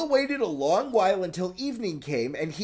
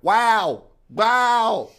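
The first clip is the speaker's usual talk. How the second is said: dog bark; 3 semitones higher, 5 dB louder than usual. Acted. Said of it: "answered nothing but".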